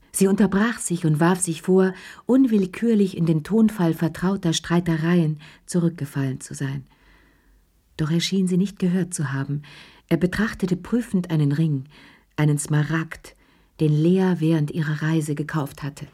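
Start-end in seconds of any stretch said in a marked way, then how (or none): none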